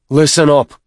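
sharp drill sergeant bark. A narrator's reading. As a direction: bark the order at recruits. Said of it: "Staff Sergeant Byrne barked".

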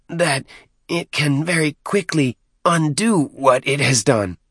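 high, halting squeal; squealing underling. A narrator's reading. Deacon passing on the creature's threat, squealing. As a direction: force out the bad news in a high voice. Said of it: "muffled squeal inside his mask".

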